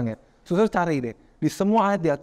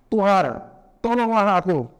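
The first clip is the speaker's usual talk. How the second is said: Tuhan tolonglah aku called out louder; crying out for help; 6 semitones higher, 3 dB louder, slower than usual. A narrator's reading. Peter sinking, calling to Jesus, loud cry. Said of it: "lalu berteriak".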